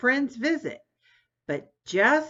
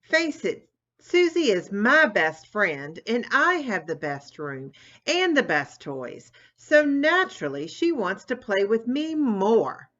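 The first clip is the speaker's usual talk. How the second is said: higher, smug bragging; a sister boasting to her brother, smug and teasing; 5 semitones higher than usual. Acted. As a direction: rub it in, mocking her brother. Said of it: "bragged Tammy".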